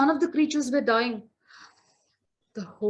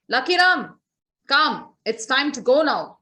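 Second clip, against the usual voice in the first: raised, louder call of the Lord of Death; Lord of Death summoning; 2 semitones higher, 6 dB louder than usual. Acted. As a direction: call him to come, firm and commanding. Lord of Death summons Lucky Ram.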